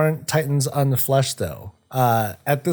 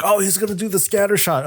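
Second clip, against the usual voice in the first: high mock whiny voice; mocking fans; 10 semitones higher, faster than usual. Streamer mimics fans groaning, in a high mocking whine. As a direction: sneer it like a bored fan.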